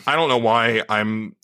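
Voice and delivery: a light, slow Texas twang; Texas drawl. Pretend. Host caught in his own slow Texas twang. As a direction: keep the lazy Texas accent going, slowly. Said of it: "You're very Texas today".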